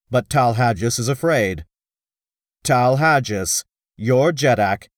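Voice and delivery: rally the council boldly; rousing oration. Acted. Hero's speech continues.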